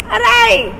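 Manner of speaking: high sudden "Aray!" yelp of pain; acted ouch. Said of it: "that's your reaction when you say aray".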